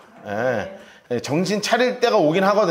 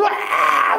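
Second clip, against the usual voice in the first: mock wail; 11 semitones higher, much slower than usual. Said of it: "막 우는 거예요".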